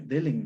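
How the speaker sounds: DELEN with the N at the end; metathesis pronunciation. Shown as a demonstration. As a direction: say "delen" as DÉ-len. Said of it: "No es denle".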